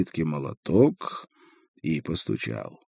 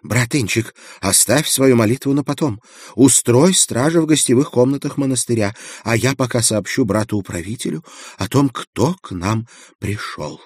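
stern monk voice; 5 semitones higher than usual. A narrator's reading. Librarian monk speaks.

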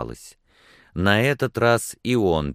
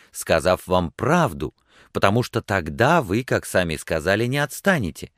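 higher, lively protest; indignant exclamation; 6 semitones higher, 3 dB louder than usual. A narrator's reading. Cornered woman argues with her suitor, exclaiming indignantly. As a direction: argue your case with hurt agitation. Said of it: "воскликнула она".

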